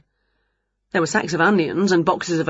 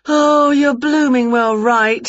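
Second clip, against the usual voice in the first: drawn-out, loud, higher-pitched witch; slow loud witch voice; 6 semitones higher, 5 dB louder, slower than usual. Acted. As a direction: stretch each word like a cheeky witch. Winnie agrees with Wilbur.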